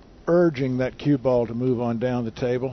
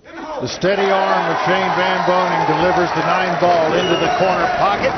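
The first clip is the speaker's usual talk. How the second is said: excited commentary; 4 semitones higher than usual. Real, not acted. Commentator calls the winning shot.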